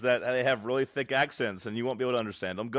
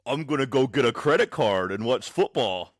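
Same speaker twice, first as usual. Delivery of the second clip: mock American impression; 3 semitones lower than usual. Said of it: "Pretend you're Chinese, be a Chinese guy, and imitate an American".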